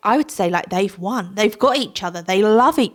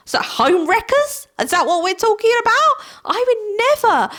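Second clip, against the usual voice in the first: high, disbelieving pitch jump; squeaky outrage at home wreckers; incredulous; 12 semitones higher than usual. Real, not acted. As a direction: sound appalled at the very idea. Mocking viewers' disbelief.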